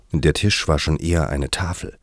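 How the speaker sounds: ordinary delivery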